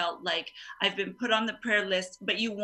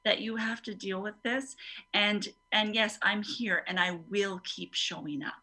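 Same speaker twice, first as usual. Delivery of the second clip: slow sincere comfort. Shown as a demonstration. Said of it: "just telling people".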